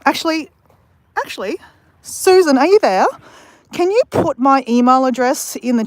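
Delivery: lifted voice hailing the moderator; calling out. Real, not acted. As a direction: call out to get Susan's attention. Calling out to mod in stream.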